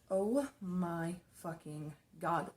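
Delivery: slow, drawn-out disbelief; retold stunned disbelief. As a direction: stretch each word out, stunned. Retelling her shocked reaction.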